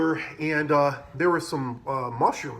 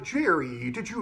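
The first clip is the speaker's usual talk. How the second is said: put-on British accent. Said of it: "like, a British accent".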